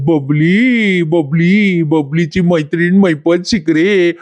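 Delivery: slow mocking singsong of a name; teasing taunt. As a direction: tease her, stretching each word. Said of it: "असं तो तिला चिडवायला लागतो".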